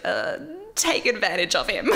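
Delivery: mock tongue-tied blurt, amused; stumbling over words. Retelling a contestant's slip about going to Mexico, stumbling and amused. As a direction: imitate a woman fumbling her line, breaking into laughter. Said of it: "she kind of stumbles over her words".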